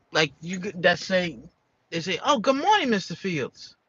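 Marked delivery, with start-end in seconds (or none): 2.2-3.8 sing-song greeting. Retold or imitated. Coworkers greeting him sweetly.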